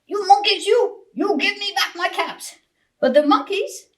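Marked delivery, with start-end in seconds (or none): 0.0-2.5 higher, louder furious demand; shouting peddler. A narrator's reading. Furious peddler shouts up at the monkeys. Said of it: "and he shouted".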